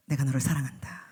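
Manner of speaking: low whispered divine reply; voice of God. Acted. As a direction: answer gently as God. (하나님의 낮은 속삭임)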